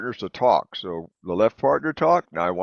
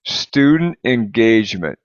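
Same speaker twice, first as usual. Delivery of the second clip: slow read-along; 6 dB louder, slower than usual. Shown as a demonstration. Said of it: "let's read the whole thing".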